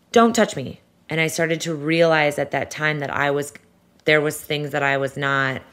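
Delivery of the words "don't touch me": higher-pitched recoiling protest; retold anxious outburst. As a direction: imitate an anxious, sudden refusal. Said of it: "having these crazy anxiety attacks".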